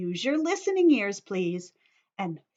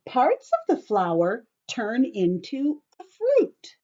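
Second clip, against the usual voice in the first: read-aloud voice; slower than usual. Acted. Teacher reading book aloud.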